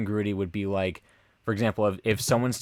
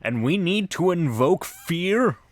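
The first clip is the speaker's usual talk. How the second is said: mock protest; 6 semitones higher than usual. Demon protesting in the skit.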